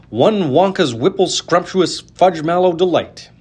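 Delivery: put-on a small boy asking politely for his treat; lightly voiced hopeful boy; young Charlie. A narrator's reading. Charlie asks for candy bar.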